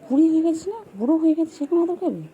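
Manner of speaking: high, loud playful teasing; teasing pet. Real, not acted. Teasing the old pet loudly. (উঁচু গলায় জোরে খুনসুটি)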